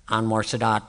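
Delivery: low, dazed chant of the name; a lightly voiced confused man repeating a name; imitating a patient on the gurney. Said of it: "This is exactly what he was doing".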